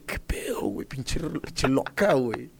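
half-whispered, drawn-out disbelief; stunned aside. Retold or imitated. His reaction to the crazy girl, stunned half-whisper. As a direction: mutter it in disbelief, slowing down.

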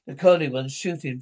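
loud barked command to fire; shouted order. Acted. Commander shouting at troops to shoot the boy, loud order. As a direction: yell it at the soldiers like an order. Ordering child shot in drama.

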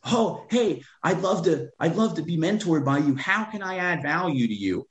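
high, put-on voice of an eager follower; a mocking high voice of a fan's DM; mock fan message. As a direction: mimic a clueless follower asking to be mentored. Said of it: "we all say the same thing".

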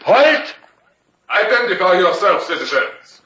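sharp sentry halt challenge. Acted. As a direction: bark the halt like a guard on watch.

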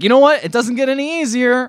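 high, loud mock tough-guy line; mock grizzled veteran. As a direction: play the seasoned soldier, hammed up. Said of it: "And Fields is like".

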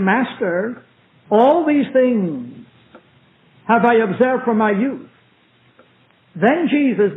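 solemn, measured Bible reading with long pauses; scripture reading. Acted. Preacher reads the rich young ruler to the church, solemn scripture reading. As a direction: read each phrase deliberately, letting it settle.

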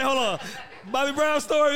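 mock hold on. Joking about stopping a story.

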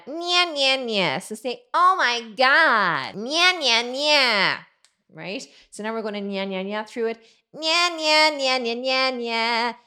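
loud bright nasal-sounding twang drills; bratty twang nya. Shown as a demonstration. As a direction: nya nya like a New York brat. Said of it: "Nice and New Yorkie".

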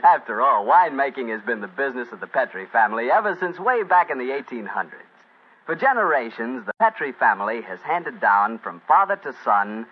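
polished sponsor's pitch; radio ad read. Real, not acted. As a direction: sell the wine like a radio announcer. Reads the sponsor's wine advertisement.

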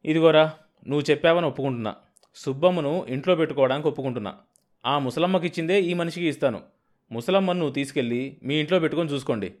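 compromising tone to end the fight; conciliatory. Acted. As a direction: settle it quickly, making a deal. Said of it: "రాజీగా అన్నాడు".

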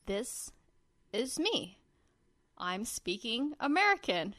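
halting mock attempt at American; haltingly trying out an American accent. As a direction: imitate an Australian carefully trying American. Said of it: "try and talk in an American accent".

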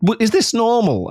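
high, cautious question; tentative checking. Retold or imitated. Speaker checking with Becca before a saying, tentative. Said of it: "I have to say".

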